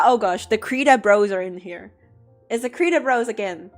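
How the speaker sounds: usual speaking voice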